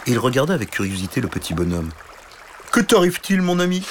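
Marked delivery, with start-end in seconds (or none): 2.7-3.8 higher, kindly dragon; friendly dragon voice; curious dragon. Acted. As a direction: ask the crying knight gently.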